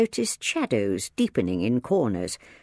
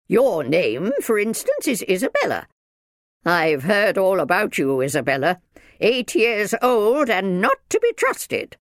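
loud, raised scolding voice; strict minder, disapproving; 8 semitones higher, 6 dB louder than usual. A narrator's reading. Minder lectures Izzy about her reputation, severe. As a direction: tell the child off, high and loud.

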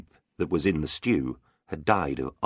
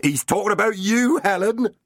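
teasing; 4 dB louder than usual. Acted. Fool taunting the crowd.

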